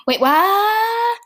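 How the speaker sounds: high, baffled "wait, what"; confused. Acted. Horatio baffled by the princesses' answer, high confused surprise. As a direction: jump up in pitch, lost. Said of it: "Horatio was very confused".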